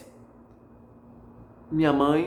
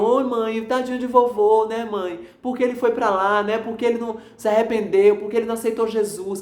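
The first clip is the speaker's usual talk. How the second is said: higher, pleading voice of grief; a touch of a sob in a raised voice; retold tearful plea; 5 semitones higher than usual. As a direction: relive crying over grandpa to mom on the phone. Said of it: "chorando, chorando".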